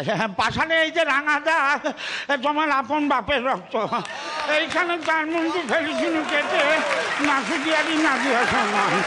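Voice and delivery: high, declaiming stage delivery; theatrical actor impression. Impersonating a stage actor for the audience, high declaiming. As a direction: declaim it like an old jatra actor. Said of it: "ফরিদন Mukhopadhyay".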